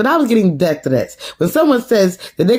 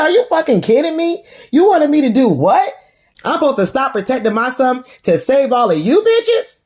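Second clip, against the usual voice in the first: indignant outburst; 6 semitones higher than usual. Retold or imitated. Garcelle snaps at Kyle, retold.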